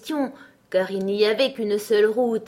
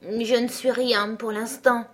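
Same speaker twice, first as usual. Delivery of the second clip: sadly; 3 semitones higher, slower than usual. Acted. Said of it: "elle répondit assez tristement".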